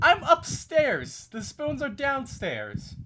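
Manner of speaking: slow, high, loud protest; yelling across the room. Real, not acted. Shouted argument about spoons.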